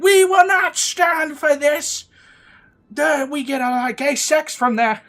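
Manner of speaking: high, loud, slow mock-French indignation; bad French accent. France objecting to losing Greenland, hammed-up French accent. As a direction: declaim like an outraged cartoon Frenchman. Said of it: "I can't do a French accent right now".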